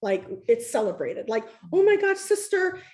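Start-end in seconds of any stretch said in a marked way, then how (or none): 1.7-2.8 high, bright mock greeting to a sister; loud, thrilled hello; excited greeting. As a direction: call out like meeting family. Greeting a fellow Black woman.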